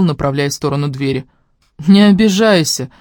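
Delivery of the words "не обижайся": smirking. Acted. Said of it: "усмехнулась я".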